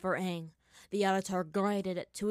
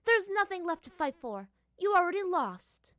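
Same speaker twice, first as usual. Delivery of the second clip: taunting villain; 11 semitones higher, 6 dB louder than usual. Acted.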